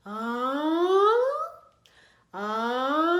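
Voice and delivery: loud ah sliding from low to high; reversed yawn demo, loud and rising; rising yawn slide. Shown as a demonstration. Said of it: "How about from low to high?".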